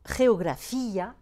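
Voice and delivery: geografía slow and loud, stressed on FÍ; drawn-out "geografía" with separate í and a. Shown as a demonstration. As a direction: split the end of geografía into FÍ-a. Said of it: "accent sur le I".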